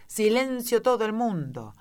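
high-pitched mock shout for order. A narrator's reading. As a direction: call the room to silence, pitched high. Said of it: "el conejo blanco estaba gritando".

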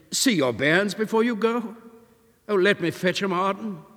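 put-on landlady eagerly offering to fetch his children; eager plea. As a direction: rush to offer help.

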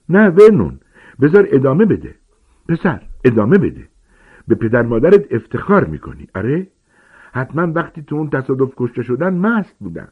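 put-on high, loud, sneering old woman voice; spiteful aunt egging him on; mocking aunt. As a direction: goad him with a cruel sneer. Aunt taunts Harry cruelly.

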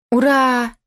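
high, loud hurrah; cheering. A narrator's reading. Children hear they are off to the ship, cheering.

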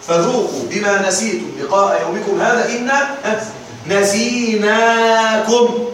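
measured tajweed chant; Quran recitation. Shown as a demonstration. المعلم يرتل الآية ترتيلا هادئا. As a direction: draw the verse out in a recitation tune.

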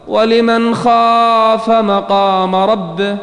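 slow, drawn-out chanted recitation; Quran recitation. Acted. Preacher breaks into slow chanted recitation of the verse. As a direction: intone the verse slowly and melodically.

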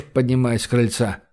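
plain reading voice

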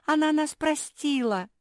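high, loud, overjoyed; joyful shout. Acted. Labradors celebrating Marsia's forgiveness, joyful shout. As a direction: cry out with relief and joy. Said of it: "завопили обе лабрадорихи".

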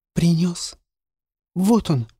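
put-on high, light boyish voice; a boy calling up to his mistress; boy's voice. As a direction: call in through the window as a young boy.

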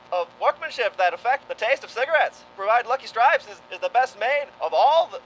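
1940s radio pitchman; smooth old-time commercial voice; vintage cigarette ad read. Acted.

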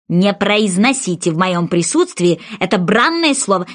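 mouse, furious about cats; angry mouse. Acted. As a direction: vent the mouse's disgust. Enraged mouse rants.

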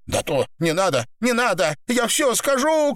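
high, climbing plea; beg, pitch rising to a peak; desperate cry. A narrator's reading. Woman offers confession to stop torture, desperate high cry. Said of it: "кричала Наташа".

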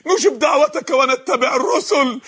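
slow, drawn-out acted plea; pleading. Sinners promising to follow the messengers, pleading. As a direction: promise it as a desperate appeal. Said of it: "شايفين الاستغاثة؟".

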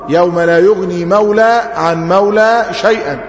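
مولى ending on long a, no n sound; grammatical reading. Shown as a demonstration. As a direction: say مولى as mawla, without tanween. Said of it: "ده النطق الإعرابي". (قراءة إعرابية بلا تنوين)

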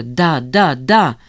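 insistent yes. Acted. Жанна insists firmly.

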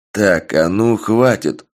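slow, firm telling-off; stern command. Acted. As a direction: put your foot down. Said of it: "грозно произнёс я".

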